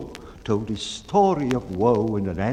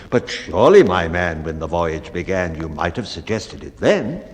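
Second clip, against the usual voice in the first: low, grumbling captain; a hint of scolding; reproachful bellman; 4 semitones lower than usual. Bellman reproaching the baker for speaking up too late, gruff.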